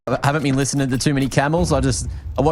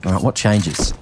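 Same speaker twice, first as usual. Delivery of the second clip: live esports casting; play-by-play commentary. Acted. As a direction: call the round as it unfolds.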